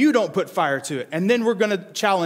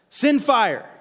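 calling out; 5 semitones higher than usual. Acted. Prophets of Baal begging their god, pleading cry. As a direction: beg for fire from above. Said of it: "They start calling out to Baal".

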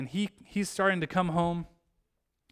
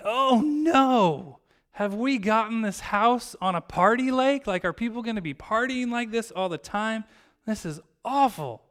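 mock dismay, higher, loud opening "oh no"; acted dismay; 5 semitones higher, 4 dB louder than usual. Family realizing they bought on a party lake, acted dismay. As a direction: voice a family's exasperated dread, pitched up.

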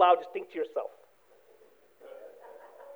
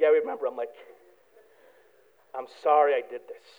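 lower, quieter contrite reply; soft apology; 10 semitones lower, 6 dB quieter, faster than usual. Retold or imitated. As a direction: admit it softly to the family. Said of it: "I was like".

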